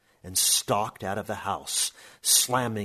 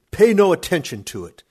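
much louder, higher dismissive roar; 9 semitones higher, 14 dB louder, faster than usual. A narrator's reading. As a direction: blast it out to end the argument. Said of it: "my Uncle Khosrov roared".

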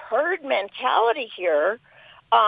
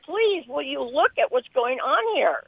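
pleading with a raised voice, real distress; emotional plea; 4 dB louder than usual. Real, not acted. Upset caller pleading with listeners to open their eyes, emotional. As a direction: urge them, close to tears. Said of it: "I'm so sorry that I'm so emotional".

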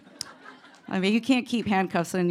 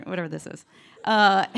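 ordinary talk

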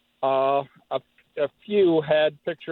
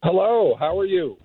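over the phone. Real, not acted. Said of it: "who's calling from Brooksville".

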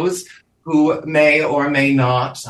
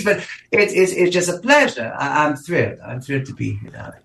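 mid-Atlantic diva with a Russian lilt; vague Eastern European accent. Acted. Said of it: "vaguely Eastern European, ever-changing, somewhat mid-Atlantic accent".

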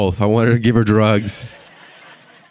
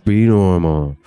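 tense, louder, strained order to himself; strained self-command; 5 dB louder, slower than usual. Retold or imitated. Comic ordering himself to act normal, tense and loud. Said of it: "just trying to, like, just be normal".

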